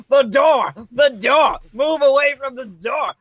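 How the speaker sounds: urgent high shout. Retold or imitated. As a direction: yell to clear the door. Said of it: "Nightcrawler's like".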